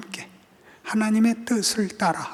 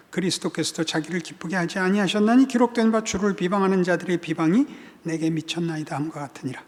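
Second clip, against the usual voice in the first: scripture reading; 2 semitones lower than usual. Acted. Pastor reading Romans fifteen to congregation, formal reading. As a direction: read the passage straight through.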